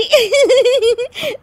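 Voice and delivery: shrill high-pitched giggling; high giggle fit. Acted. Daughter-in-law on laughing pill, high giggle fit. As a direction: burst into a long high giggle. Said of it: "हंसने वाली दवा खा लेती है".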